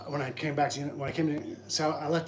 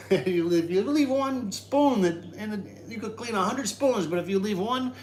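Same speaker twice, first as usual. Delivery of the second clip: laughing; 7 semitones higher, 3 dB louder than usual. Real, not acted. Laughing joke about spoons.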